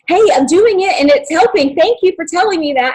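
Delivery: fighting back tears while thanking her mentor; getting emotional. Real, not acted. Woman recalling thanking her mentor, close to crying. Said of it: "I'm getting emotional".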